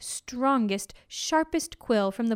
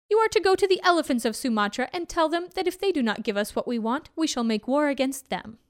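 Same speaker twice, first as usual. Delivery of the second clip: lazily careless, pitched up, words rushing at times; lazy tiger king; 6 semitones higher than usual. Acted. Tiger Raja lazily ordering his servants to Sumatra, pitched up. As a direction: toss it off carelessly. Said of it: "He said lazily".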